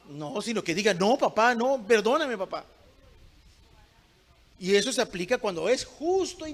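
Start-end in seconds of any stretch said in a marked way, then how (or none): 0.9-2.6 lightly acted begging, slightly raised pitch; pleading child. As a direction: imitate a child begging dad for forgiveness. Acts a punished child begging.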